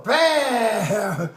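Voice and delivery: drawn-out "bam" sound effect; imitated bang. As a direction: mimic a blow landing. Imitates the blow in a fight.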